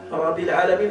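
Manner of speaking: Rabbil Alamin said carelessly, weak letters; deliberately wrong recitation. Shown as a demonstration. Teacher demonstrates the wrong version to students. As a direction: mispronounce Alamin on purpose. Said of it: "c'est faux".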